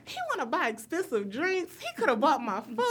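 high-pitched, indignant complaint; laughing mock outrage; so mad. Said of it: "I'm so mad".

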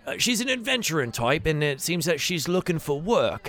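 helpful Yagra. Acted. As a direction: lightly play a friend vouching for a newcomer. Game master plays Yagra.

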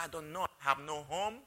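soft, low and defeated, a retold despair; hopeless, near tears. To her supervisor at the park, quiet hopeless reply. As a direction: let the words sink, barely audible.

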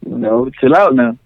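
measured mock-stern warning, with pauses between phrases; lightly stern father reining in a child; a touch of serious tone, unhurried; serious, stern dad. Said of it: "Get that serious tone on there".

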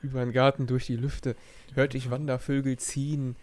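slow, drawn-out verse reading; Gedichtvortrag. Acted. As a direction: read the verse slowly, line by line. Liest die Strophe erneut vor. (langsam vorgetragenes Gedicht)

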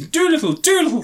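high mock child's call; little boy calling. Reviewer as little boy running to the house, calling. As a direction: call out like an eager kid.

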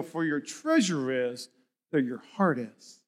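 dropping low and soft to the end; hushed scripture. Acted. Preacher to church, quoting Jesus in a hushed low voice. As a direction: let the verse sink in quietly.

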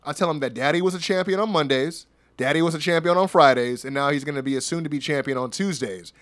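even, measured retold reply; calm. Apollo answers Waller's jab about his kids, calm. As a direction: keep it cool and unhurried. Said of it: "this dude stays calm".

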